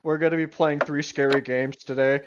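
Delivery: low-pitched mock video host; deep, amused game-intro voice; dropped-voice impression. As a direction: drop the voice down for a teasing imitation. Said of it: "they drop their voice down three octaves".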